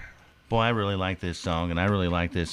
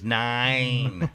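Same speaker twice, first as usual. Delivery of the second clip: Colonel Klink; 3 semitones higher than usual. Pretend. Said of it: "you don't have to say it like Colonel Klink".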